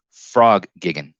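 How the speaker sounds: gigging said as giggin; no final g. Shown as a demonstration. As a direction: drop the g, giggin. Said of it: "There's no G at the end of gigging".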